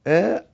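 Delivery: آ held for two short beats; two-beat madd. Shown as a demonstration. Teacher measuring the vowel, آ held two counts. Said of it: "حركتين".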